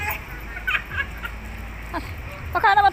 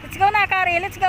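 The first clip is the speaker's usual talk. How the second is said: higher-pitched, eager cheering-on; urging a dog on; 3 semitones higher, faster than usual. Real, not acted. Owner urges Kari to get going, eager high calls. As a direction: coax the dog along in a raised pitch.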